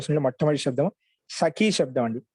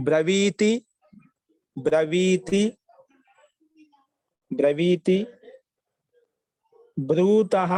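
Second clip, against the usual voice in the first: measured recitation with long vowels; verb-form dictation; much slower than usual. Shown as a demonstration. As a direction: recite each form separately for students to copy. Dictating verb forms to students. (ధాతు రూపాలను సాగదీస్తూ వల్లె వేయించడం)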